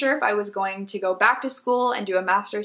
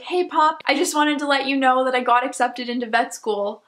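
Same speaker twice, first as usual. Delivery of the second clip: excited news to grandpa; 4 semitones higher than usual. Retold or imitated. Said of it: "I was like".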